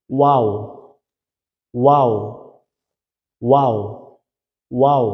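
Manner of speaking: ওয়াও said with rounded lips slightly open; pronunciation demo. Shown as a demonstration. Teacher modelling ওয়াও for learners, rounded and falling. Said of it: "আমার সাথে একটু বলুন".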